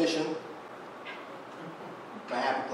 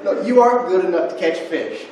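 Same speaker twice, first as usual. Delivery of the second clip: mocking accuser voice; 4 semitones higher, 10 dB louder than usual. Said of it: "it's like".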